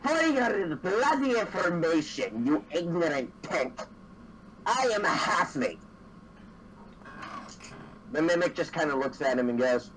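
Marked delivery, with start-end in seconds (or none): 0.0-5.8 drawn-out, mildly huffy retort; a touch of offended pride, slowly enunciated; lightly acted indignation; indignant halfling. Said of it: "indignant look on his face".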